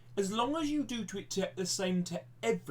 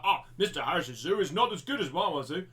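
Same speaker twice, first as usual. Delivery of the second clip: sing-song mocking whine with swooping pitch; mock complainer; 3 dB louder than usual. Teacher mimicking viewers who compare his zoo, mocking sing-song. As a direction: imitate a sniping critic in an exaggerated lilt. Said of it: "Please don't be, be like".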